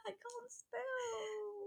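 slow, high, laughing through tears; wailing with laughter. Real, not acted. Laughing after misspelling.

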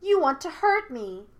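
put-on high, loud petulant child; childish petulance. A narrator's reading. Hidden spirit accuses armed Yue, childishly petulant. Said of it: "with childish petulance".

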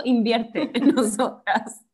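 slow pitch. Acted. Pitching to an investor.

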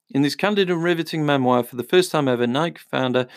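brisk book-blurb read; reading aloud. Real, not acted.

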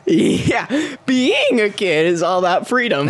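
put-on a light, chirpy kid ad read; kid commercial voice. Reprising his childhood commercial line, kid ad voice. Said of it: "you're really good at that".

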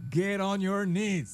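police command. Pretend. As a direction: drag out the order like an arresting trooper. Acting out police arrest. (orden de policía, lenta y fuerte)

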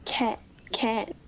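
Australian "can't" with a broad open a, cahnt. Retold or imitated. Guest tries an Australian "can't" on the host's request. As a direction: say "can't" like an Aussie, long open vowel. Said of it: "No, that's Australian".

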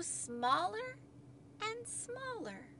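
second "smaller" tiny, high and soft; dwindling. A narrator's reading. Narrator tells children the hat is shrinking, dwindling.

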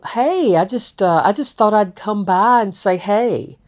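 acting out a casual "hey" on a doorstep; retold casual greeting. Retold greeting at an unexpected visit.

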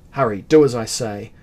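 a loud, impatient command; angry order. A narrator's reading. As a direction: cut him off and order him to hurry. Prince snaps orders.

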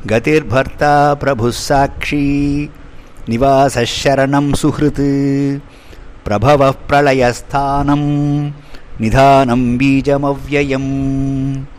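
slow, measured chant of the verse; Sanskrit verse recitation. Acted. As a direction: intone the shloka evenly, like scripture.

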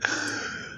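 soft, breath-only villain laugh; quiet hollow laugh in character; hollow echoing laugh. Acted. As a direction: laugh hollowly, low in volume. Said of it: "a hollow echoing laugh".

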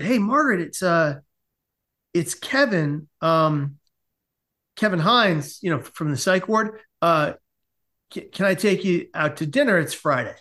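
halting, awkward phone invitation; nervous asking-out. Acted. Man phones a woman from the psych ward for dinner, nervous and halting. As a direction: stumble through it with hesitant pauses. Phoning Margaret for a date.

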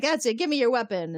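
Romulan commander ordering Riker, mock stern; Tomalak demanding. Tomalak demanding the weapon, voiced.

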